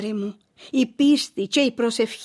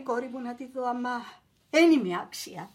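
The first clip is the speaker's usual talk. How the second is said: humble murmur; 7 dB quieter than usual. Acted. Mother humbly murmurs her unworthiness.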